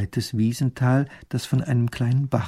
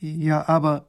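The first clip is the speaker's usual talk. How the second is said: put-on higher-pitched young royal, hesitating; puzzled princess; 5 semitones higher, slower than usual. A narrator's reading. Princess faltering at the soldier's news, puzzled. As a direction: begin an objection, at a loss. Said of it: "sagt die Prinzessin".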